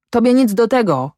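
high-pitched, moderate outburst; angry yell. A narrator's reading. Farmer rebukes his farmhand, yelling in moderation. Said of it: "wrzasnął Ślimak".

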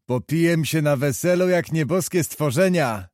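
thin voice. Acted. Leliwa promises the friends a wild wedding, thin-voiced. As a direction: squeeze it up into a thin little voice. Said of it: "rzekł cienkim głosem rekuć Leliwa".

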